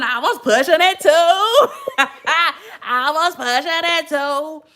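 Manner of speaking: laughing through the words; real giggle while telling it; words spilling out between laughs. Real, not acted. Laughing at own old driving.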